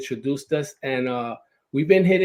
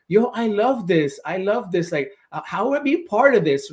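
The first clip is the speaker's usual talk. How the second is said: eager imitation, pitched a bit higher; enthusiastic; 4 semitones higher than usual. Host imitating his guest's eagerness to join, enthusiastic. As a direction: mimic someone keen to join in. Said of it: "you were so enthusiastic".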